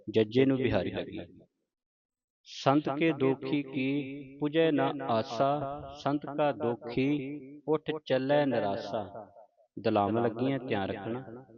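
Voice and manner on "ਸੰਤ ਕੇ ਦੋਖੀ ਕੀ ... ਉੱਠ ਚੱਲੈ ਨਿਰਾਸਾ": slow, measured verse reading with drawn-out vowels; scripture recitation. Shown as a demonstration. Teacher models Gurbani for the congregation, slow recitation. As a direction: recite each verse slowly, stretching the line's long vowels.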